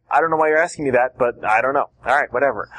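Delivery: puzzled why they even ask; confused. Shown as a demonstration. Coach shows the witness as mildly confused and brushing it off. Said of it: "kind of this confused".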